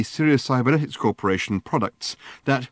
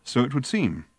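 placid voice; 3 semitones higher than usual. Acted. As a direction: say it with unruffled calm. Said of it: "said Arthur in his placid voice".

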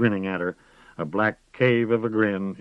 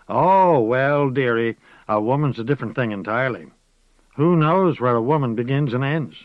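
higher, louder crone voice; rising into an incantation; old witch speaking of her roots; 6 semitones higher, 5 dB louder than usual. A narrator's reading. Moss turns solemn.

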